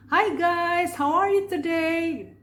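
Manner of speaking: bubbly youth talk-show host; light casual host voice. Shown as a demonstration. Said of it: "suara yang ringan itu untuk kita bicara sehari-hari". (suara ringan pembawa acara hiburan)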